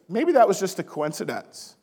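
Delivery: lightly sarcastic skepticism; mock doubt. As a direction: play at brushing it off as chance. Mock doubt about answered prayers.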